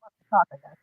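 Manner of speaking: muffled voice from a tunnel; distant, cutting-out phone line; driving into a tunnel. Real, not acted. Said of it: "Sound like you're in a tunnel".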